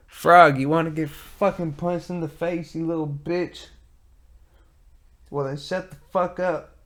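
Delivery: high angry shout at the croaking frog; yelling at frog. Real, not acted. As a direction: threaten the frog outside, loud and high.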